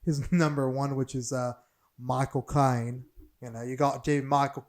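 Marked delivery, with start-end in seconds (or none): 2.0-4.7 put-on horrible English accent. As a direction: attempt a bad English accent. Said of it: "it's a horrible English accent".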